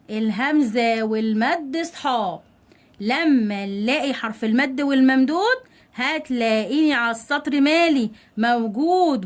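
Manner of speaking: slow, rhythmic classroom jingle; rhyme recitation. Shown as a demonstration. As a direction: recite it slowly as a memory rhyme. Recites memory rhyme for pupils. (إلقاء منغّم وبطيء)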